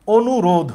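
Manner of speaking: "অনুরোধ" said carefully, stopping on the final dh; word-final stop. Shown as a demonstration. Teacher demonstrating a final consonant, careful word stopping on dh. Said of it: "আমরা অনুরোধ বললে".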